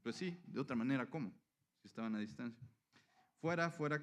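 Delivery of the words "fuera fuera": mock crowd yell, pitched higher; crowd shout. Crowd yelling back at Pilato, mild mock shout. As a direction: cry it out like a distant mob. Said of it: "pero ellos gritaron".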